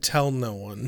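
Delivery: quiet put-on deadpan. Quoting a character's reply from a scene they like, retelling a deadpan line. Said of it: "Giles is just deadpan".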